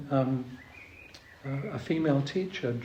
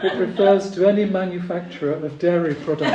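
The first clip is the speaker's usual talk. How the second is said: mildly pompous man, louder and a little higher; 4 semitones higher, 9 dB louder, faster than usual. Acted. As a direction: pronounce it like a self-important expert. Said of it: "in a rather pompous manner".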